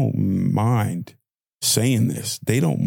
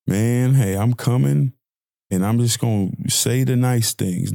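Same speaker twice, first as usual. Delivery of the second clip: mock Jesus, lightly voiced; 3 semitones higher than usual. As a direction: toss it off like a Jesus who only says nice things. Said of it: "Jesus didn't say".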